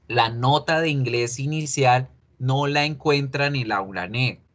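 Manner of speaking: nasal voice from a blocked nose; stuffy nose. Real, not acted. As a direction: talk through a stuffed-up nose. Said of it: "estoy con la voz súper nasal porque estoy con la nariz tapada". (voz nasal por la nariz tapada)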